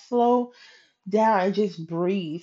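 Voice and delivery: slow, calming advice; encouraging. Retold or imitated. Coworker calming her at the desk, slow and encouraging. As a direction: ease them into breathing, softly. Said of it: "encouraging me".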